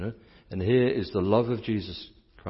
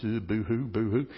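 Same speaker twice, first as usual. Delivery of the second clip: mock boo-hoo. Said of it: "walking around like this".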